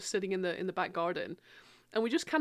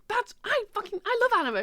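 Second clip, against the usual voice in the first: mock friend; 12 semitones higher, 3 dB louder than usual. Voicing friend's reply.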